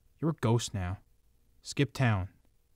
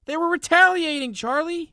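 furious shout; 10 semitones higher, 7 dB louder than usual. Acted. Heated quarrel with partner.

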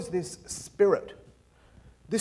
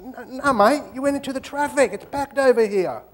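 high, loud quarrelling protest; acted blokey squabble; aggressive mate; 7 semitones higher, 5 dB louder than usual. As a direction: argue back, pitched up and insistent. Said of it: "So the mate gets aggressive".

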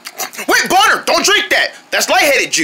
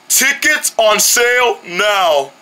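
machine voice; much slower than usual. Acted. Ticket machine announces.

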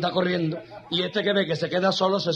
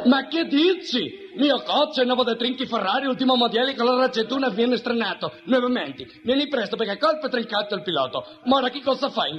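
agitated, higher-pitched Italian driver; mock Italian accent; 5 semitones higher than usual. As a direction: rant in a comic Italian accent. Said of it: "Se me queda así el italiano".

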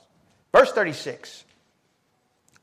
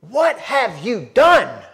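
Pilate questioning; 8 semitones higher, 9 dB louder than usual. Acted. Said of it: "he says".

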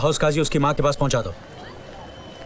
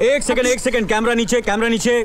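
high, raised voice, urgently repeating; urgent command; 7 semitones higher, 4 dB louder than usual. Acted. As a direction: cut in to stop the filming. Husband breaks up TV filming.

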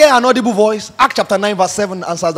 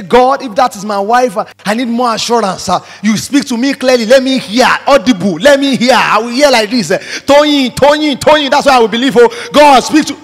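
imitated pleading prayer. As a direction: imitate someone begging God for a sign. Acting out a desperate prayer.

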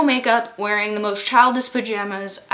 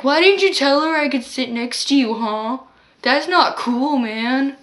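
put-on drunk man complaining; 3 semitones higher, 3 dB louder than usual.

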